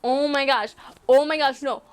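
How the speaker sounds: overwhelmed exclamations building into shrieks; freaking out. Retold or imitated. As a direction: act out a proposal freak-out, rising to screams. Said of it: "I'm, like, freaking out".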